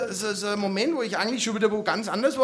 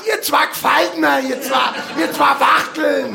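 mock outburst; 4 dB louder, slower than usual. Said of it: "hab ich mir immer gedacht".

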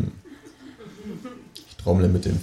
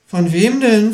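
high, louder kangaroo question; startled question; 13 semitones higher, 5 dB louder, slower than usual. A narrator's reading. Kangaroo asks the ghost, startled and high. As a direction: ask in sudden alarm. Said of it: "fragt das Känguru erschrocken".

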